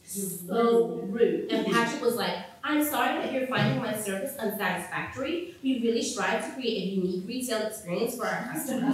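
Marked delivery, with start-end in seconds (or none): 2.6-8.9 overly polite customer-service voice; sweetly polite with a barb underneath; a hammed-up retail politeness; mock polite. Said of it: "sounding really polite".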